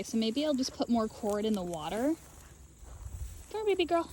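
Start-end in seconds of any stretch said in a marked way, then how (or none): 3.5-4.1 sweet call. Real, not acted. Calling the lamb to come, high sweet coax. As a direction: coax her over sweetly.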